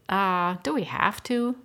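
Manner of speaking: put-on slow, drawn-out childish whine; whiny complaint. Twins whining to Deidre about the salad, slowly. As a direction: groan it like a kid avoiding salad. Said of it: "the twins complained in unison".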